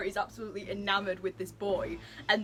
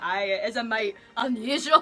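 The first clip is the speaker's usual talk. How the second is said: put-on louder Scottish-accented quote; 7 dB louder than usual. Rockruff remarking on the accent, Scottish accent. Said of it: "a Tennessee accent and a Scottish accent".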